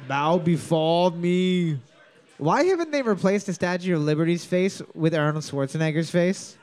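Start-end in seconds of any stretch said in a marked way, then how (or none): 0.1-1.8 slow commanding dark lord; bow before me, slow and grand. Acted. Voices commanding figure.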